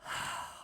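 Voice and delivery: exasperated, audible sigh; heavy acted sigh of restraint; loud sigh. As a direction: sigh pointedly in character. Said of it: "I just sigh very".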